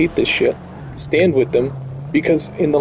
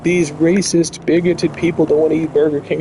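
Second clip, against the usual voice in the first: mock indignation; 4 semitones higher than usual. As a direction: imitate an aggrieved company, stretching the "oh". Voicing company blaming unhappy customers.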